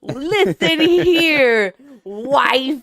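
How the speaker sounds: loud, high, slow angry-dad bark; refereeing kids in car. Pretend. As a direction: bellow like a stern father. Playing a six-year-old father.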